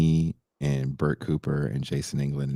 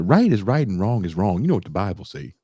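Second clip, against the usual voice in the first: quoting the preacher; 3 dB louder than usual. Retold or imitated. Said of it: "where he does the".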